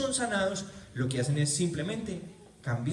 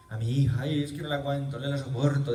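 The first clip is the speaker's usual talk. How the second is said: upset mother. Retold or imitated. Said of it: "dice la mujer".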